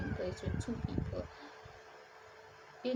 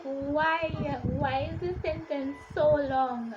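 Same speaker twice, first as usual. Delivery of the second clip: louder, mock-pained questioning; exasperated lament; 4 semitones higher, 5 dB louder, slower than usual. Reader reliving an endless sentence, mildly exasperated. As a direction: plead in playful frustration. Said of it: "I was like".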